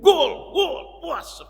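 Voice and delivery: high, loud cry of gol, gol; fan's goal scream. Retold or imitated. Fan at the final screaming gol, high and loud. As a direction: scream it like the winning goal just went in.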